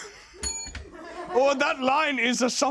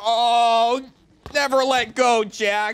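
mock tearful farewell; 5 dB louder, slower than usual. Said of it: "talks in movie quotes".

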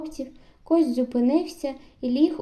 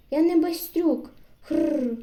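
shout; 3 semitones higher, slower than usual. Acted. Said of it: "підняв голову і крикнув".

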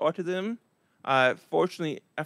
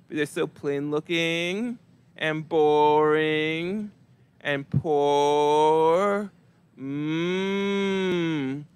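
slow, drawn-out sultry purring; woman swooning over the boring guy, slow sultry mock purr; much slower than usual. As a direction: purr over him like he's irresistible, hammed-up.

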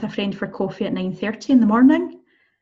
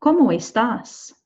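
"¿Cómo estás?" slowly, words run together; drawn-out, joined "¿Cómo estás?"; model for repeating; 2 semitones higher, slower than usual. Shown as a demonstration. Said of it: "Maybe try and repeat that one".

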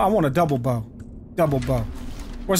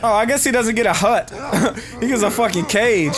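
laughing. Real, not acted. Laughing at prisoner.

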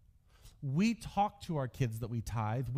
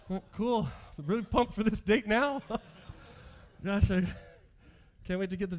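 sarcastic; 7 semitones higher than usual. Retold or imitated. Sulking after dad's verdict.

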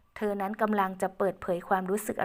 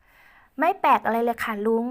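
put-on reassuring young woman; 3 semitones higher, 5 dB louder, much slower than usual. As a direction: reassure him gently as Ae. Ae reassures uncle.

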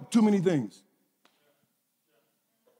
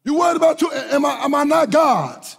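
God rebuking. Retold or imitated. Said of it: "and God said".

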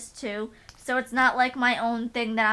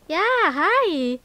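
much higher, louder happy hi to the dog; excited greeting; 7 semitones higher, 9 dB louder than usual. Real, not acted. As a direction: burst out a happy hello.

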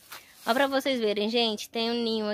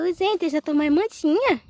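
high, louder cute little-sheep voice; voicing the sheep; 9 semitones higher, 4 dB louder than usual. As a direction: talk as the tame sheep, sweet and high. (voz aguda e fofa da ovelhinha)

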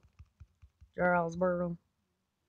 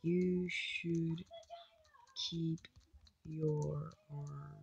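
put-on voice; 7 dB quieter, much slower than usual. Odd voice to teammate.

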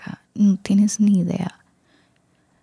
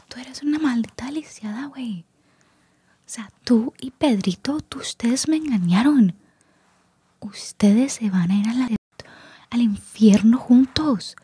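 whispered mock telenovela rage, higher pitched; telenovela villain; 4 semitones higher than usual. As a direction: hiss the accusation like a soap-opera villain, still whispering. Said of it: "se me va para lo de las novelas". (villana de telenovela exagerada, en susurro agudo)

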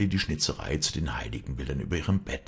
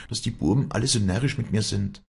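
puzzled wondering; 6 semitones higher than usual. A narrator's reading. Walli's puzzled thought.

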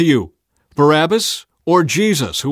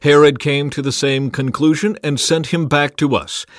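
loud, raised public pronouncement; announcing a verdict; 5 semitones higher, 6 dB louder than usual. A narrator's reading. Pilate addressing priests and people, announced verdict. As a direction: declare the ruling to all. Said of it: "he announced his verdict".

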